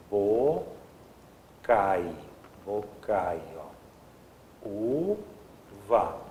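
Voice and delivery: "Bocai" and "Uva" stretched, with pauses between the parts; syllable by syllable. Shown as a demonstration. Teacher splitting bocaiúva for the class, syllable by syllable. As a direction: take the word apart slowly, "Bocai", then "Uva". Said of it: "antigamente tinha bocaiúva".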